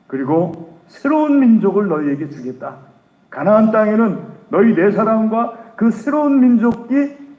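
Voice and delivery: wrathful God. Acted. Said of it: "진노하셔가지고".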